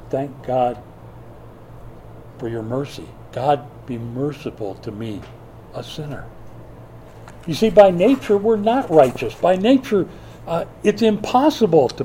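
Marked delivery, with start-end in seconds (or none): 0.1-6.3 humble mumble. Retold or imitated. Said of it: "he just mumbled under his breath".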